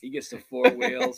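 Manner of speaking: high, hammy jab at a friend; high teasing voice. Pretend. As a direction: squeak it out to tease. Teasing about roller skating.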